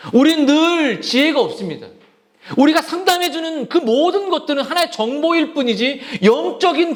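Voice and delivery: high-pitched, urgent sermon delivery; insistent preacher's exhortation; impassioned preaching. Real, not acted. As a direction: press the point home to the congregation. Preaches with rising intensity.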